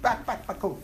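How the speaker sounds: quiet clucking chicken, trailing off; soft chicken clucking. Pretend. Teacher finishing the chicken joke with a quiet cluck. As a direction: cluck it softly under your breath. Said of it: "How does the chicken sound?".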